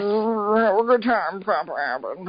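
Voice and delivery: put-on Cockney accent.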